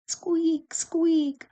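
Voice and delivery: very high squeaky lantern noise; high-pitched creak on each word; squeaking lantern. A narrator's reading. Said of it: "went the lanterns".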